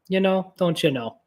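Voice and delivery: laughing Midwestern "don't you know"; playful Midwestern sign-off breaking into a laugh; Midwestern accent. Retold or imitated. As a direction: tag it with a giggly Midwestern lilt. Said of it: "one of my favorite accents to do".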